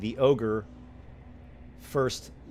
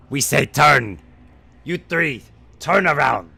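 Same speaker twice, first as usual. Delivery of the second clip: higher, louder angry ogre; ogre yell; 4 semitones higher, 11 dB louder than usual. Acted. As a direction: yell the order again. Ogre repeating order louder.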